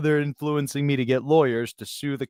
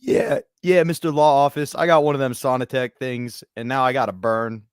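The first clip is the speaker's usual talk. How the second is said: raised-pitch put-on caller voice; fake claimant; 3 semitones higher than usual. Caller tells law office about sauna burn, put-on claimant voice. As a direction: play an eager bogus plaintiff.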